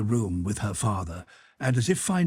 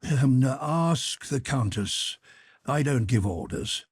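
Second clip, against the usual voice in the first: put-on gruff old count; 2 semitones higher, slower than usual. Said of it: "the Count frowned and coughed".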